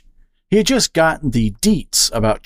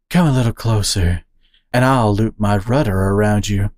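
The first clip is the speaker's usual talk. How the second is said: sultry. Acted. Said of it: "Akira adopted a sultry tone".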